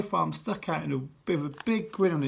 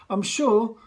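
pompous teacher; 4 semitones higher, 4 dB louder than usual. Acted. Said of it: "he continued".

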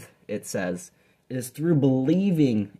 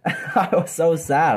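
laughing; 5 semitones higher, slower than usual. Real, not acted. Laughing at his childhood sadness.

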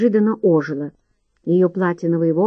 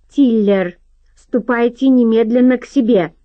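louder and higher, a furious order; angry shout; 5 semitones higher, 5 dB louder than usual. A narrator's reading. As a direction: bark the command at the servant. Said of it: "гневно выкрикнул Уолтер Годфри".

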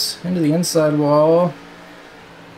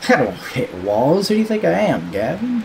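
gentle teasing; 4 semitones higher than usual. Pretend. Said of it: "I'm just kidding".

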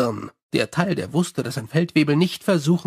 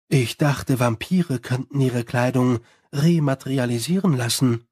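reproachful; 3 semitones lower than usual. Acted. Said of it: "sagte Angua vorwurfsvoll".

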